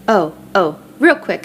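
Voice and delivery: eager, rushing, voice jumping up; blurting it out before the call ends; excited. Acted. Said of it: "Cece says excitedly".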